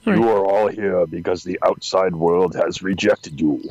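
movie villain quote. Retold or imitated. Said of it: "That was from the first movie".

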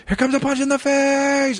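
squeaky high sing-song announcement; mock warning. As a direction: chirp it out sweetly before the punch. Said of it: "I'd be like".

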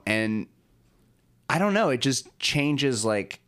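slow, spacey stoned talk. Real, not acted. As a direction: drift through it like you're high. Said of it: "I'm sorry, I got real high".

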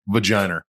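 vagina as "vaginer", low; old-school Boston. Shown as a demonstration. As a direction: end vagina with an added R. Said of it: "the old school Bostonians".

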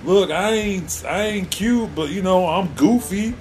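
goofy cartoon dog voice; dopey cartoon voice. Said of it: "he sounds just like fucking Goofy".

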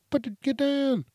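very high, loud shouted hero command; Batman. Retold or imitated. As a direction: burst in yelling orders. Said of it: "I'm Batman".

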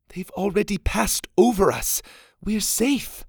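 high snapped reply; a daughter snapping back at her father; sharp retort. Acted. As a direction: shoot it back defiantly. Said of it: "Mora shot back".

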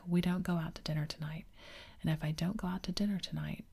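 a hint of stern warning in a whisper; father warning his wife, mildly stern and hushed. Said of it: "he went on sternly".

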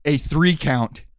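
menacing heel promo; wrestling promo. Acted. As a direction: threaten the opponent.

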